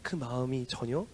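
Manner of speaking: preacher lowers to a whisper to the church; hushed whisper. Real, not acted. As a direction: drop to a hushed whisper for weight. Sermon drops to hush.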